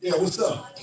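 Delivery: high, bright pleased surprise; surprised greeting. Retold or imitated. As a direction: greet a friend you just spotted. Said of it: "look up and be like".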